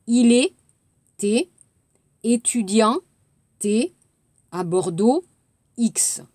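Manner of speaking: dicter lettre muette par lettre muette; épeler les lettres muettes de «Il est étudiant à Bordeaux»; lent, lettre par lettre. Shown as a demonstration. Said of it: "de barrer les lettres que vous n'entendez pas". (articuler en nommant chaque lettre barrée)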